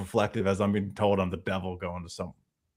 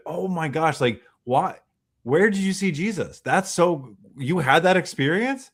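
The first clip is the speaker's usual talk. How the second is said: raised, eager questioning; excited curiosity; 5 semitones higher than usual. Acted. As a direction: act out being thrilled to hear their story. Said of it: "talk to me with excitement".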